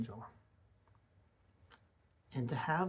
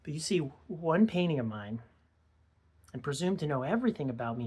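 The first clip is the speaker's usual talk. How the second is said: higher, louder accusation, rising in indignation; indignant rebuke; 4 semitones higher, 5 dB louder than usual. Acted. Older man rebukes kid who judged his painting, indignant. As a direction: confront them, voice lifted in reproach.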